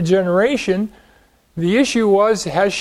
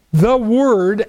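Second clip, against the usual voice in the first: "The Word" drawn out slowly and set apart; slow, weighty "The Word"; stress on Word. Real, not acted. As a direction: lean slowly on "The Word" as the answer. Emphasises the Word while reading verse.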